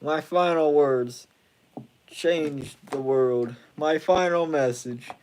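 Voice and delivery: hammed-up final message; dramatic farewell.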